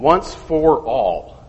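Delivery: "once for all" slowed, each word weighted; emphatic once for all. Shown as a demonstration. Teacher ramming the phrase home to the class, slow and weighty. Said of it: "just to emphasize it and ram it home".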